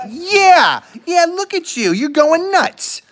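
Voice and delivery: put-on squeaky high baby talk to the dog. Owner teasing her excited dog in a squeaky high voice. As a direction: pitch way up, teasing the puppy.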